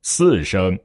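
both syllables in a low key. Shown as a demonstration. Teacher showing any key is correct, low key. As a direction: say it low, tones intact. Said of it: "我不管说".

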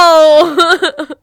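high loud cowboy whoop; southern accent cowboy holler; yeehaw. Pretend. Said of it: "you haven't used your southern accent yet".

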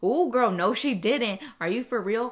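loud, over-dramatic sassy dictation; sassy attitude. Retold or imitated. Imitating husband dictating a text to Siri, loud and sassy. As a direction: belt it out with attitude, punctuation and all. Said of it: "But this is Jorge".

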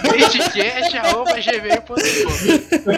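laughing. Real, not acted. Reads the email, laughing.

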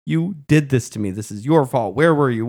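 half-voiced hurt outburst at the one who left; understated mock fury; mildly acted anger. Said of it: "how angry she was".

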